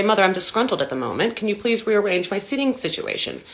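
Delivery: lightly voiced, over-polite baby making a formal request; mock formal child. Child addressing mother about the seat, mock formal. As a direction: play an articulate infant, slowing and rising in pitch. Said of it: "Our child cannot look us in the face and say".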